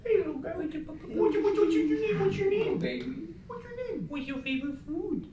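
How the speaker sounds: put-on high, soft baby talk voice. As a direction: coo at a toddler, very high. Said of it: "baby talk voice".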